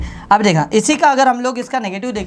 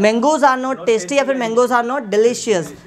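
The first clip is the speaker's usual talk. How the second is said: slow, word by word, for the class to repeat; slow model sentence; much slower than usual. Shown as a demonstration. Teacher drilling students, very slow and deliberate. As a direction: lay each word down slowly. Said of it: "teacher models sentence for repetition".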